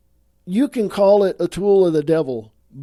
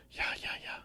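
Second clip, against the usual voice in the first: whisper; 19 dB quieter, much faster than usual. Real, not acted. Host muttering aside before wrapping up.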